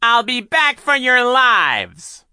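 very slow, high, loud threat; menacing call. Acted. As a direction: stretch out the threat. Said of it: "he called".

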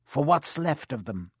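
nastily. Acted. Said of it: "he added nastily".

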